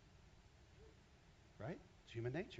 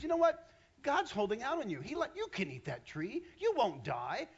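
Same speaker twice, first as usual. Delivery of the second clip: higher, louder sly tempter; 9 semitones higher, 6 dB louder than usual. Acted. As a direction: whisper lies loudly to tempt her. Satan tempting Eve.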